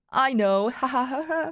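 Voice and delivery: acted giggle trailing the words; between giggles. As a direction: say it, then giggle it out. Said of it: "she said in between giggles".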